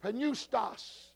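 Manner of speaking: pneustos said as noo-stos, p silent; Greek word demo. Shown as a demonstration. Teacher shows the class the Greek word pneustos, said softly. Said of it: "And the word".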